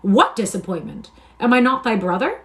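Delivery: a loud, high, baffled protest; cried out. Acted. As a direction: demand an answer in shock. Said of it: "cried out".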